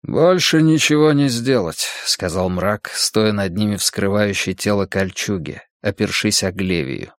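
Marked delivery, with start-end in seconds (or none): 0.0-1.9 степенный монах, чуть выше; мрачно, сдержанно, как воин-монах; голос монаха. Acted. Монах Мрак говорит над телами. (сдержанный голос монаха)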